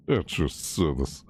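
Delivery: slow, lightly put-on servant voice; mock butler; imitating Blade. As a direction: echo the game line slowly. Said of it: "Blade's like".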